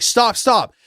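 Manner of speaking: mock him cutting her off; retold telling off. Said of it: "And he's like".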